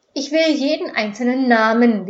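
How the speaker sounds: loud, blustering command; officer ordering the crowd gruffly; rumbling order. A narrator's reading. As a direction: bark the order at the group. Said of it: "polternd an".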